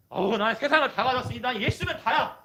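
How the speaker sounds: high, hushed swoon of a blissed-out believer; put-on rapture, high and soft; blissed-out churchgoer. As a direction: gush softly, high up, as if overwhelmed.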